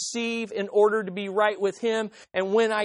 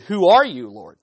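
startled question; 2 semitones lower, 8 dB louder than usual. Acted. Saul answering the voice.

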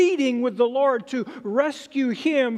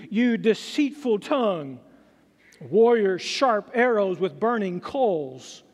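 scripture reading. Acted. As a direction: read solemn verse with long pauses. Reads the psalm aloud.

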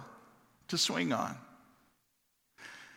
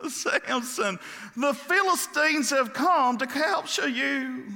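crying out; 9 semitones higher, slower than usual. Retold or imitated. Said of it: "Delilah again cried out".

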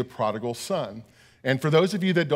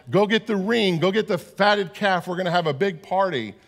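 retold father's joyful call. Father calling to his son, mock joyful shout. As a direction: call to the servants like a glad father. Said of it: "he yells to the older son".

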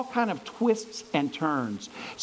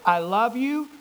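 joking goodbye; 4 semitones higher, 3 dB louder than usual. Retold or imitated. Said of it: "I would just say".

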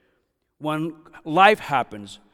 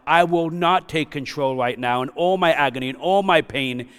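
resolute cry of surrender; 3 dB louder than usual. Acted. Jesus to his Father in agony, loud resolute vow. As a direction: proclaim it like a man choosing the cross. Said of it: "He's saying".

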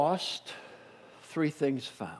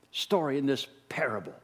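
hushed whisper; 3 semitones lower, 5 dB quieter than usual. Real, not acted. Preacher marvelling at the parable, whispering in awe. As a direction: drop to an awed whisper. Sudden whisper after praise.

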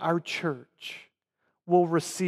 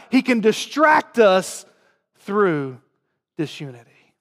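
forceful warning; 3 dB louder than usual. Real, not acted. Warning against disunity in church.

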